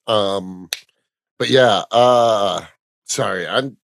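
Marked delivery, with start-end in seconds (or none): 3.0-3.8 quiet, spaced-out stoner mumble; stoned. Real, not acted. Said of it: "I'm stoned".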